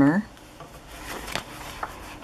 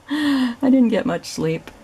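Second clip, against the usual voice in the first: laughing; 8 semitones higher, slower than usual. Real, not acted. Laughs after apologizing for yawning.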